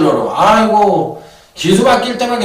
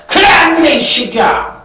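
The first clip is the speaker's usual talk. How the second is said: high, loud scolding burst; mock angry shout; 9 semitones higher, 4 dB louder than usual. A bettor yelling at the tipster, mock angry shout. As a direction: yell at him like a fed-up bettor. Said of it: "딱 이렇게 얘기를 하면".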